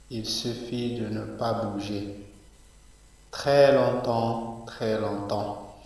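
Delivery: measured poem reading, each line set apart by a pause; unhurried classroom poem recital; poetry recitation. Acted. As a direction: recite slowly, lifting each new verse and easing off on the repeats. Recites the poem a second time.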